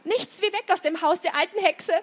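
hurried, high-pitched panting escape. A narrator's reading. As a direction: speak as if fleeing out of breath. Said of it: "keuchte Otto".

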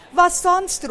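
high, loud quick exclamation; spirited storybook shout; calling out. A narrator's reading. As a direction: call it out as if obvious. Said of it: "ruft Knolle".

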